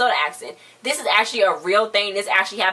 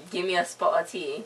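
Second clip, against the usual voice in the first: put-on British accent; 3 semitones lower, 5 dB quieter than usual. Co-host asks for British, light mock British accent. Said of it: "Let's go, British".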